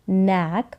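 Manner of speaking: "नैक" starting straight on n, rhyming with "back"; silent k. Shown as a demonstration. Teacher explaining K and N together, silent k. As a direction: say "नैक" with no k before the n. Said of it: "के जो है वो silent रहेगा".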